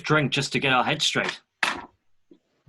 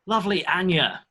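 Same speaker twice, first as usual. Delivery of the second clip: effusive greeting; 7 semitones higher than usual. Acted. Greeting scowling barkeep.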